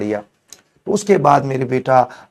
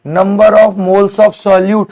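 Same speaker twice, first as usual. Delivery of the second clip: very slow, each word spaced out and louder; slow dictation; 4 semitones higher, 5 dB louder, much slower than usual. Shown as a demonstration. Teacher dictating the definition to his students, slow and deliberate. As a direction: dictate it so they can write it down.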